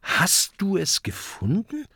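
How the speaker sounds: high, surprised asking; astonished little dragon; baffled question. A narrator's reading. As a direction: ask in amazement, pitched high. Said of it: "fragt Kokosnuss verblüfft".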